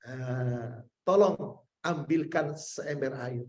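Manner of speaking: low, soft and slow, unhurried; the Prophet calmly asks a companion for water; calm request. Retold or imitated. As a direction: ask gently, no rush at all.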